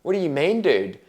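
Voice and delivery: squeaky, high, indignant "what do you mean, dude"; incredulous retort. Retold or imitated. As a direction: play up mock disbelief at the doctor's joke. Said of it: "I said".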